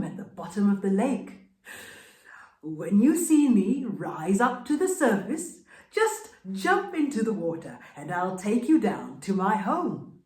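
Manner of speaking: sweet-talking crocodile host; coaxing friendly crocodile inviting his friend; crocodile's invitation. Acted. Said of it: "the crocodile made an invitation".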